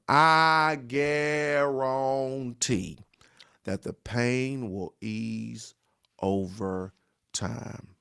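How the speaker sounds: soothing pastor's assurance; slow tender promise. Real, not acted. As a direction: lean in and promise it slowly.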